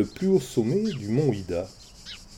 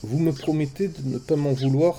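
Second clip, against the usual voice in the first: timid; 3 semitones higher than usual. Acted. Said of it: "demanda timidement".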